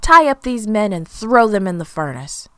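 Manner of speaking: loud, forceful royal order; angry shout. A narrator's reading. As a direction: command soldiers as an angry storybook king. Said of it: "shouted angrily at the soldiers".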